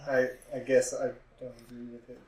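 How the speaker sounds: quiet, timid, quick admission; meek mumble. Pretend. Cowed running mate mumbling agreement to his boss.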